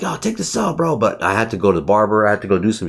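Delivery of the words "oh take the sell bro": mock nudge to self. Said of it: "And I was like".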